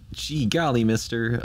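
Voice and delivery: lightly voiced eager 1950s kid; a hint of gee-whiz cheer; wholesome 1950s kid. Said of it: "I often refer to them as".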